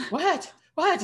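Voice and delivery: high, puzzled "what, what"; mock baffled double take; baffled surprise. Her own baffled reaction, retold.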